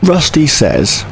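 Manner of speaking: words stretched by a yawn. Real, not acted. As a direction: say it mid-yawn. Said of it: "I yawned".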